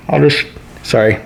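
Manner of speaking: muffled behind a hand; talking through covered mouth; hand over mouth. Real, not acted. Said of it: "can't hear me when I have my hand over my mouth".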